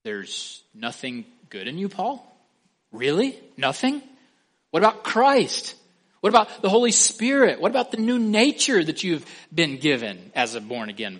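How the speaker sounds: high, loud, disbelieving challenge; incredulous objector. Retold or imitated. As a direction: challenge him in mock disbelief. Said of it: "the objection that he knows is coming is this".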